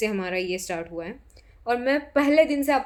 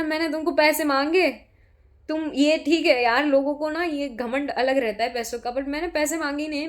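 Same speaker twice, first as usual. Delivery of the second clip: higher and louder, an offended snap back; retold with sharp indignation, voice raised; indignant retort; 5 semitones higher, 4 dB louder than usual. Retold quarrel over money. (नाराज़ होकर ऊँची आवाज़ में जवाब)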